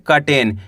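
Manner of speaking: curtain said "ka-ten", no u sound; silent U. Shown as a demonstration. Teacher showing learners the word, curtain without a u sound. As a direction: say curtain with "ka" first, "katen". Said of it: "यू को यू नहीं पढ़ना".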